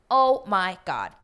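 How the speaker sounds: slow, drawn-out exasperated yell; exasperated shout. Real, not acted. Vlogger reacting to a reality contestant, shouting. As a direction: let it burst out in disbelief.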